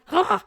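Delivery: high, loud mock huff; exasperated huff. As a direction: imitate your own exasperated huff. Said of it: "sometimes I get like".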